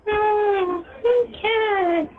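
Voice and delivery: cartoon character voice. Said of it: "If you drop the voice".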